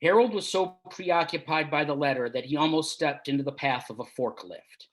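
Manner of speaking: steady, measured reading of his own story; story narration. A narrator's reading. Author reading his story to an audience, measured narration. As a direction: read the tale to listeners, unhurried.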